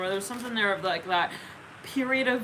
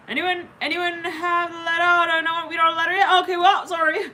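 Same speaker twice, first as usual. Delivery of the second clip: high, loud plea to a crowd; calling out; 8 semitones higher, 7 dB louder than usual. Acted. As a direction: call round the hall, increasingly flustered. Calls out to crowd for letter.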